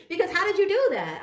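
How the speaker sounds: high laughing amazement. Real, not acted. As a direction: laugh through the disbelief. Laughs while mimicking amazement.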